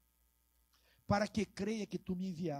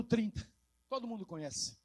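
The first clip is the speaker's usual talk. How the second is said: normal talking voice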